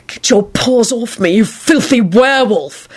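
slow, lightly voiced Snape snarl; a hint of a sneering Snape, dragged out. A narrator's reading. Snape card sneering at Elizabeth, slow mild snarl. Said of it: "he snarled".

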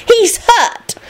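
put-on high, emphatic girl prefect; authoritative. A narrator's reading. Prefect Lydia informing the girls, authoritative. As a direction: announce it as the one in charge. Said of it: "told the other girls authoritatively".

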